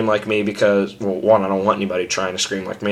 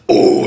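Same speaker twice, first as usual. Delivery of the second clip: scream without voice; 6 dB louder than usual. Shown as a demonstration. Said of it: "So instead of like".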